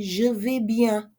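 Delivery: Je vais bien said slowly and clearly; slow model reply. Shown as a demonstration. Teacher modelling the answer slowly. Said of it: "Or you can say".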